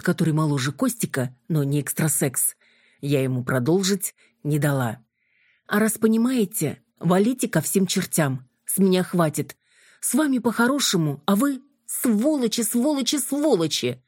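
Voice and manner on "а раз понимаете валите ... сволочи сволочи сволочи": furious. Acted. Юля гонит их, бранясь.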